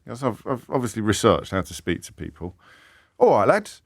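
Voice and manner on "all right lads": higher-pitched Tilbury greeting; a lightly put-on Tilbury accent. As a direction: greet the lads in mock Tilbury. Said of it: "with my Tilbury accent now".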